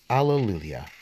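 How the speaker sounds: lifted, sing-song cadence on each response; responsorial psalm reading. Acted. Cantor leading the congregation in the psalm, prayerful and lilting. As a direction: read the psalm as if leading the refrain.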